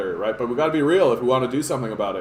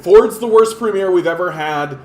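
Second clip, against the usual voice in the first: attack ad; 7 dB louder than usual. Retold or imitated. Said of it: "They're gonna be".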